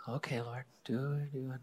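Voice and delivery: whispered urging prayer to God; soft whispered prayer at a bedside; hushed prayer. Retold or imitated. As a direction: breathe it out as a quiet plea. Praying over sobbing friend.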